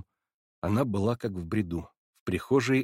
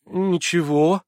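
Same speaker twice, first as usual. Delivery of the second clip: terribly embarrassed; 9 semitones higher, 6 dB louder, much slower than usual. A narrator's reading. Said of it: "в ужасном смущении".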